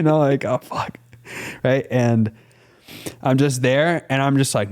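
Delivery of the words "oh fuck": breathy whispered swear; whispered curse. Retold or imitated. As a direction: mutter it under your breath. Inner reaction aside.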